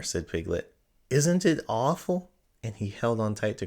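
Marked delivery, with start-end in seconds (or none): 1.1-2.3 high, slow, trembling-loud worry; frightened. A narrator's reading. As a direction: say it slowly, frightened, clinging close. Piglet clings, frightened.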